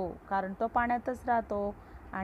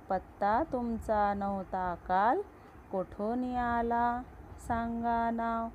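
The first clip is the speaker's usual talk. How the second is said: poem recitation; 2 semitones higher than usual. Acted.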